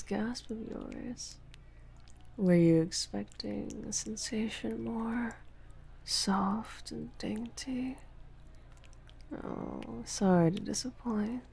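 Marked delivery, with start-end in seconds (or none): none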